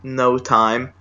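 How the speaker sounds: understated, deflated aside to oneself; imitated quiet self-talk. Ignored man consoling himself, imitated in a subdued tone. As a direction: drop the eagerness, as if saying it privately. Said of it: "he's quietly into himself goes".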